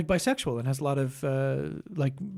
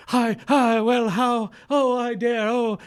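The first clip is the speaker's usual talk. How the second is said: haughty snob; 6 semitones higher, 5 dB louder, slower than usual. Retold or imitated. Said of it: "You know, like".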